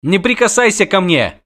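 put-on high-pitched indignant girl; squealed protest. A narrator's reading. Girl fends off the witcher, squealed protest. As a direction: squeal it to fend him off. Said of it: "взвизгнула она".

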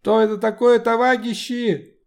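burr every r in товарищи like a French r; guttural French r. Acted. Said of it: "прокартавил главный большевик".

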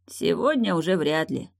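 ordinary delivery

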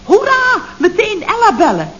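hoog, juichend voorgelezen; voorgelezen juichkreet. Retold or imitated. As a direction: lees het briefje op als een juichkreet. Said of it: "iets opgeschreven heb van". (hoge, juichende toon)

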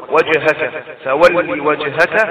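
وجهك with a bounced still ج; qalqalah on ج. Shown as a demonstration. Teacher repeating وجهك for students, ج rebounded. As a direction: echo the ج before the ه in وجهك. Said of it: "الجيم ساكنة من حروف قطب جد تقلقل".

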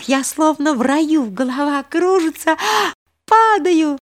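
high breathless delight rising to a cry; thrilled girl on swing. A narrator's reading. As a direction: swoon with joy, then cry out falling. Girl swinging, thrilled then scared. (восторг, переходящий в испуганный вскрик)

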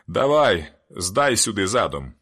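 loud, hoarse shout into the dark; the hoarse man shouting to the truck driver to back up. A narrator's reading. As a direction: call out to the driver, slow and loud. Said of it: "гукнув хрипкий у темряву".

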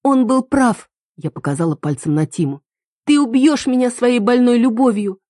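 put-on a betrayed girl accusing her boyfriend; angry accusation. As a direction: throw the blame at him. Heroine accuses her lover.

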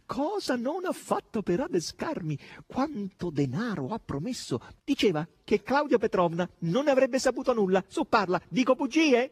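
high, gleeful voice building to a shout; shrill exclaiming. A narrator's reading. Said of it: "strillava e rideva Natascia". (strilli acuti, sempre più forti)

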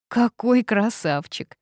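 delighted slow compliment; smiling. A narrator's reading. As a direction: purr approval with a smile. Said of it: "вдруг улыбнулась Кела".

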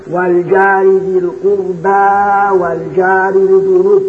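slow recitation with الجار in full fatha; open a. Shown as a demonstration. Teacher recites the fatha reading for students. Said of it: "فتح الياء وتقليل الجار".

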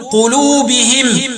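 "قلوبهم" as qulubihim; slowly, i after the h of "قلوبهم", stop on m; kasr ha, still mim. Shown as a demonstration. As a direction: end "قلوبهم" with -him. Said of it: "وقرأوا بإسكان الميم وكسر الهاء وقفا".

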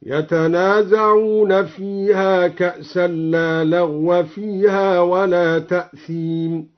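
slow chant with لا and لغو vowelled with fatha; slow Quranic chant with the fatha on لغو; recitation with لا as negation. Shown as a demonstration. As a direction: recite slowly, reading لغو as لغوَ with open fatha. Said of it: "على أن لا للتبرئة هكذا".

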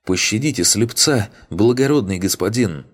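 high, wailing mock plea; drawn-out whine. A narrator's reading. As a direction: wail for mercy like a groveling beggar. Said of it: "снова затянул он". (тянуть жалобно, высоким голосом)

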